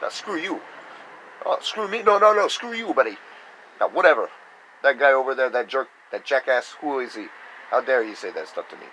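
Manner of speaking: hammed-up streetwise defiance; mock tough retort. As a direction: snap back at the insult like a brash tough guy. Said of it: "it was more just like".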